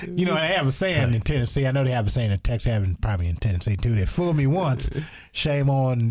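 a lightly voiced Bush musing about Tennessee; George Bush impression. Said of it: "He was like".

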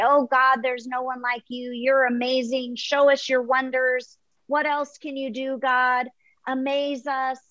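a touch of the admiring crowd, pitch lifted; cheering praise. Acted. Believers cheer God on from the ledge, mildly excited. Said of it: "cheer and we wanna say".

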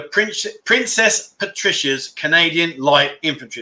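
slow, deliberate enunciation; careful tongue twister. Real, not acted. Getting a regiment's tongue-twister name right, slow and careful. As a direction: pick through the long name slowly, word by word. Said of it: "it's a bit of a tongue twister".

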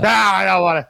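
high mock-anguished refusal; hammed-up childish protest; imitated wailing child. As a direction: wail it like a distraught little girl. Child refusing to fetch toy.

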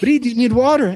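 put-on high, fussing Argentine Spanish-accented voice; a caring Argentine colleague fussing, high and accented; mimicking her Argentine accent. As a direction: imitate the eager coworker with her Argentine accent. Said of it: "because of her accent".

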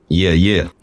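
hoarse, put-on sick voice. Shown as a demonstration. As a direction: croak it like you're ill. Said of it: "my sick voice".

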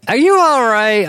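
high-pitched retold worried question; mock concerned mom.

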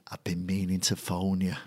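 softly imitated Scottish secretary; lightly put-on Scottish accent, kept quiet. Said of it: "she had this beautiful Scottish accent".

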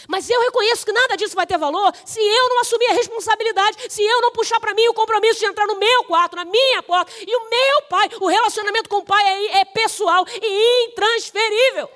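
high, forceful sermon voice; impassioned preaching. Real, not acted. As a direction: drive the point home from the pulpit.

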